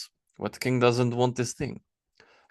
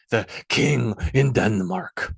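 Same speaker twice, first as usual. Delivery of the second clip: mocking; slower than usual. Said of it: "He said the last word as a mockery".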